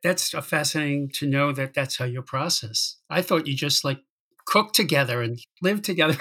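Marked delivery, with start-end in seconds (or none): 4.5-6.2 laughing. Real, not acted. Joking about their partnership.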